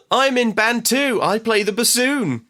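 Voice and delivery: put-on high, slow, loud warbling boy voice; pitiful warble. Podcaster acting Max's eager reply to Jenna, high warble. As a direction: warble it out, desperate to impress. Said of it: "pitifully warbles".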